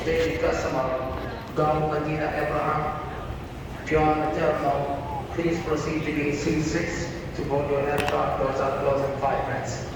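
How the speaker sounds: airport announcement. Acted. Airport PA boarding call.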